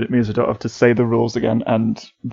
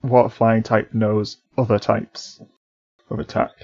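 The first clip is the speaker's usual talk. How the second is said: slowing down. Real, not acted. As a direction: let the sentence drag and stall. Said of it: "I can feel myself slowing down".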